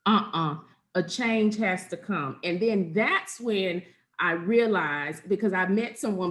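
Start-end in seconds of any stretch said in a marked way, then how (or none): 0.0-2.4 firm self-talk. Retold or imitated. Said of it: "I said".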